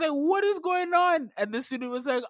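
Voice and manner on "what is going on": high, drawn-out disbelief; mock incredulous. Teacher retelling confronting a singing student, incredulous. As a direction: stretch it out, pitched way up in bafflement.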